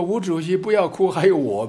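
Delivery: mock consoling call. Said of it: "没有一个人跑出来说".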